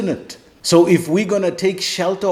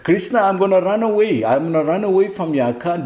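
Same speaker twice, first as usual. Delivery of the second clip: Arjuna panicking; 5 semitones higher, faster than usual. Retold or imitated. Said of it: "That's what he's saying".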